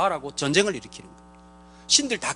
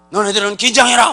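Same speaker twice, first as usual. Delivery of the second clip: stern warning; 7 dB louder than usual. Pretend. God warning people.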